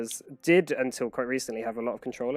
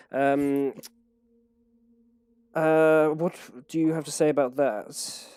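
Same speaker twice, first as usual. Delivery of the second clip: commanding king. Acted. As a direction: speak like a king dictating terms to an envoy. GM voices king stating demand.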